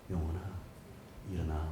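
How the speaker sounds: soft, low, limp call; timid wrong way. Shown as a demonstration. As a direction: say it weakly on purpose. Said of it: "이게 아니에요".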